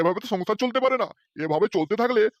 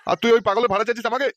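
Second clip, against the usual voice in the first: furious, louder and fast yell; angry shout; 6 dB louder than usual. Acted. The father-in-law shouts at the driver for bringing a madman. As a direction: roar at him before the blows.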